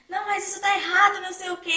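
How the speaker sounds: mock complaint. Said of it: "elas vão reclamar".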